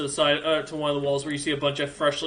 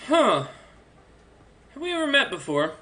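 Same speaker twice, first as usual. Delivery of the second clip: curious orc emperor; 9 semitones higher than usual. Acted. Emperor eyes a guest, lightly voiced curiosity. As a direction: size up a stranger with suspicion. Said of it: "man looks at you and goes".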